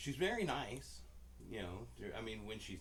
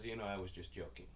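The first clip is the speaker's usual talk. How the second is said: lower-key, imitating a straight-faced cashier; deadpan; 3 semitones lower, 4 dB quieter, faster than usual. Cashier comes back to say she was joking, deadpan. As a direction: deliver the joke with zero expression. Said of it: "her face never fucking changed".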